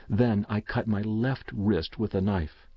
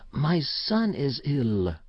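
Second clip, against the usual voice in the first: slow, lightly voiced sorrowful confession; grieving mother; 4 semitones higher, slower than usual. A narrator's reading. Mother admits to the shopkeeper her son is ill, slow and sorrowful. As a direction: let it out slowly, heavy with grief.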